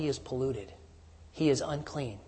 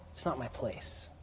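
low-key, softer reading; quietly stated; 3 semitones lower, 12 dB quieter than usual. Acted. Michael's answer, stated softly and plainly. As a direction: say it softly, matter-of-fact. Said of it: "What he's saying is".

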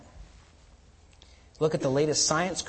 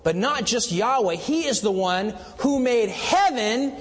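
building proclamation; 6 semitones higher, slower than usual. Acted. Preacher proclaiming Yahweh as maker of heaven and earth, rising. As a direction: build to a ringing declaration. Sermon climax on the Lord.

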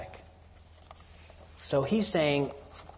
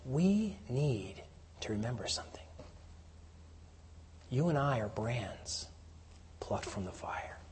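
intimate hush; 3 semitones lower, 11 dB quieter than usual. Real, not acted. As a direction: draw them close and whisper it. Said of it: "applying it to the listeners".

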